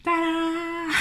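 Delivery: high bright reveal, like a magic trick; playful reveal. Acted. Unveiling her favourite fabric to viewers, playful reveal. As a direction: present it with a flourish.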